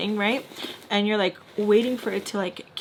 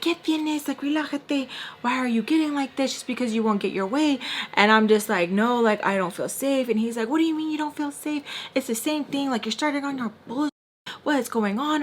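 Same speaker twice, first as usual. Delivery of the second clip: exasperated retelling; 4 semitones higher than usual. Retold or imitated. Man upstairs confronts her for freaking out, mock exasperated. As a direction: imitate an exasperated questioner, pitched up. Retelling his irritated questioning.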